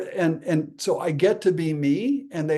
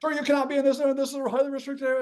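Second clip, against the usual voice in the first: high-pitched, hurried impression of a guard; stern soldier; 12 semitones higher, much faster than usual. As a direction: rattle off an official warning in a raised voice. Voicing soldier warning him off.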